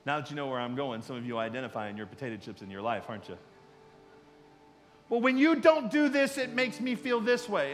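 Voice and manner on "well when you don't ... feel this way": calm honest request. Shown as a demonstration. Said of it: "instead of saying those words".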